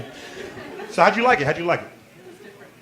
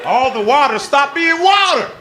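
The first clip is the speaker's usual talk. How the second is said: laughing; 10 semitones higher, 4 dB louder than usual. Real, not acted. Laughing retelling of story.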